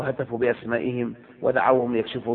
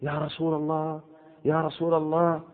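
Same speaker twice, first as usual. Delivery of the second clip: soft, half-sung imitation of a man calling out; imitating a plea; 3 dB quieter than usual. Preacher imitating the worshipper's call, softly chanted. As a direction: croon it like a man pleading at the Kaaba. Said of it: "حتى سمعت يقول".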